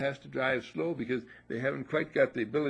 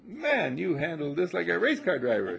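quoting Brian; 5 semitones higher, 4 dB louder than usual. Retold or imitated. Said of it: "he says".

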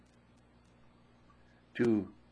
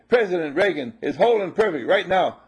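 affirmation; 5 semitones higher, 6 dB louder than usual. Shown as a demonstration. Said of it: "Do an experiment and say".

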